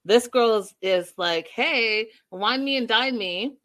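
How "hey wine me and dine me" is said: lightly voiced mock diva, a touch higher; imitating Megan. Host mocks Megan's dating attitude, lightly imitated voice. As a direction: tease her as a demanding date. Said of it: "It's almost exactly like Nicole".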